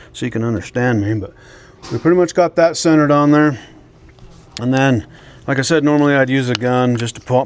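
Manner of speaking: talking around a flashlight in the mouth; mouth propped open. Real, not acted. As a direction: speak with a flashlight clamped in your teeth. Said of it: "I'm gonna have this flashlight in my mouth".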